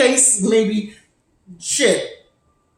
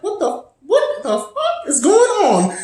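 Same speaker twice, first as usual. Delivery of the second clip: alarmed; 12 semitones higher, slower than usual. Retold or imitated. Her alarmed reaction to shouting.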